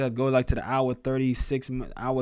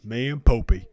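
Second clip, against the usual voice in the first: Forrest Gump. Pretend. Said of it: "I got a little into that character there".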